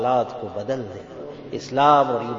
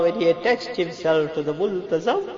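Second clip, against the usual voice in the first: raised voice, holding back sobs; tearful prayer; 5 semitones higher than usual. Real, not acted. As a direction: choke back tears while pleading. First take, emotion held somewhat.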